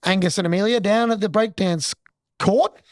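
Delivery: hammed-up broadcaster handing over to experts; mock TV host throw. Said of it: "but I'm like".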